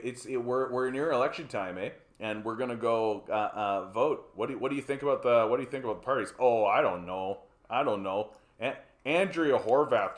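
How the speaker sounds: lightly voiced Canadian hoser accent, eh; a laid-back Canadian hoser, half-hearted. Voicing a Canadian voter asked about the parties, light hoser accent. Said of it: "are Bob and Doug McKenzie".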